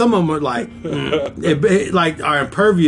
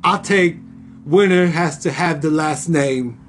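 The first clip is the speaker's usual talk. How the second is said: put-on Italian accent. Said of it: "you have the greatest Italian accent".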